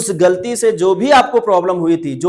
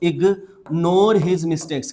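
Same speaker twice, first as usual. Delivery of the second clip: each word drawn out slowly for learners; slow dictation pace; slow model phrase; much slower than usual. Shown as a demonstration. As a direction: spell it out slowly for students to repeat. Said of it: "क्या बोलेंगे आप?".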